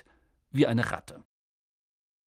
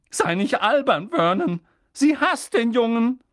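higher, louder scornful aunt; sharp rebuke from the aunt; aunt scoffing; 9 semitones higher, 6 dB louder than usual. A narrator's reading. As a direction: dismiss her husband's idea. Petunia rejects.

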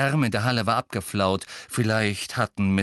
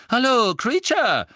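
loud, high call of a greeting; 6 dB louder than usual. A narrator's reading. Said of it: "sagte Fred mit sehr lauter Stimme". (mit sehr lauter Stimme)

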